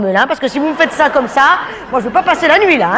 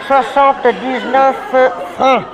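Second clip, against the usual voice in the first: slow, pointed repeat; slower than usual. Shown as a demonstration. Waiter repeating the price to an inattentive table, slowly. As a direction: spell out "Soixante-dix-neuf francs" slowly, word by word. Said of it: "je ne le répéterai pas".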